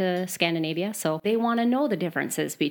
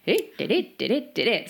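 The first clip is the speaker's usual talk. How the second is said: sing-songy Swedish; 4 semitones higher than usual. Retold or imitated. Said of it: "the sing-songy".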